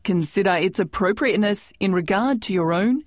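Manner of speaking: measured, formal scripted announcement; presenter's formal disclaimer voice; disclaimer read. Acted. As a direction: read out the legal notice clearly. Host reads scripted disclaimer.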